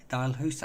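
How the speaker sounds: Dalhousie said tentatively, rising like a question; hesitant, questioning attempt at saying Dalhousie; unsure pronunciation. Real, not acted. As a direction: try out Dalhousie, unsure how it is pronounced. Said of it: "I don't know how to pronounce that".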